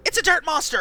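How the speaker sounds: high loud excited shout; excited cry. Acted. Spotting the creature at the dock, excited shout. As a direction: yell out the discovery.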